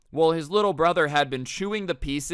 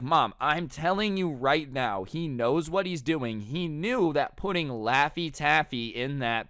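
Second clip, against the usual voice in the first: slow, emphatic retold protest; measured, insistent delivery; insistent pleading; slower than usual. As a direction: spell it out to a disbelieving mom. Brother insists to doubting mom.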